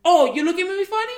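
loud, high Boston challenge; Boston tough guy. Acted. Imitating Boston guys spoiling for a fight, Boston tough-guy shout. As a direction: start a fight in a mock Boston accent. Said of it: "Boston guys, they just wanna fight".

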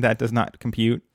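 stiff, even robot delivery; old robot voice. Retold or imitated. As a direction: recite it like an old machine. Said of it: "the old robot expression".

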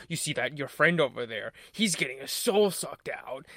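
slow, lightly put-on odd delivery; odd-talking movie character. Host quoting a film villain's taunt, lightly imitated odd voice. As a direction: lightly imitate a bizarre line reading. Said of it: "the way he talked was so funny".

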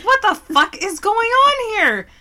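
high-pitched, incredulous outburst; exaggerated baffled question; mock bewilderment. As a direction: react like you can't believe the racket. Retelling own alarm at the yelling.

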